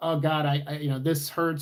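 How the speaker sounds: normal talking voice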